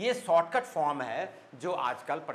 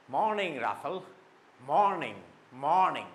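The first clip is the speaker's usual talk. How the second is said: stressed, stylish "मॉर्निंग"; stylish morning greeting; 3 dB louder than usual. Shown as a demonstration. Teacher wishing Rafael good morning with a stylish stressed greeting. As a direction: greet with a weighty first syllable on "मॉर्निंग". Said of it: "देखिए style".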